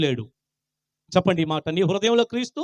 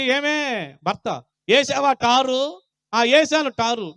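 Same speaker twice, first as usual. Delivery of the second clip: acted household exchange; 5 semitones higher, much slower than usual. Voices a couple discussing the star.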